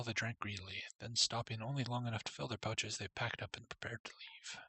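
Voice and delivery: steady storybook reading voice; story narration. Acted. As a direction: read it like a storybook. Reads game story text.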